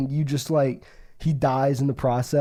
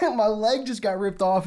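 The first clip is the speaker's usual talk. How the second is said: higher-pitched wail, half in earnest; mock anguish; 5 semitones higher than usual. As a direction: imitate the hurt victim's complaint. Voices the hurt elephant.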